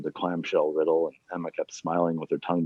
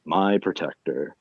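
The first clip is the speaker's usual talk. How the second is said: Southern Belle drawl; slower than usual. Acted. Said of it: "in her practiced Southern Belle drawl".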